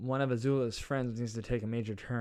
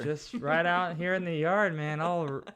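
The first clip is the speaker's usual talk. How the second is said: yelling; 7 semitones higher, 5 dB louder than usual. Pretend. Yelling outside in the wind.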